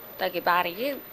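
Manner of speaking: normal voice, a touch pained; toothache. Real, not acted. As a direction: say it aloud, wincing a little. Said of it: "meu dente tá doendo demais".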